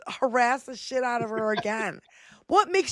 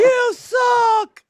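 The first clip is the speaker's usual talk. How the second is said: high, louder jeer; jeering yell; 12 semitones higher, 6 dB louder than usual. Retold or imitated. Retelling taunting the MAGA lady, high jeer. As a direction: taunt her loudly. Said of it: "And then I was like".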